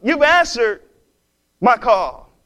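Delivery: high, loud thankful exclamation; joyful praise. Retold or imitated. Old lady finding groceries on her porch, joyful cry. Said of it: "And she says".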